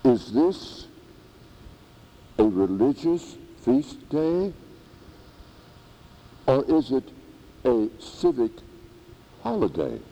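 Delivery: a hint of a Pakistani accent. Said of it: "in his own little Pakistani dialect".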